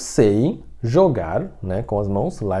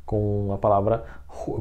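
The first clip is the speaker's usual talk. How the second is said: ordinary talk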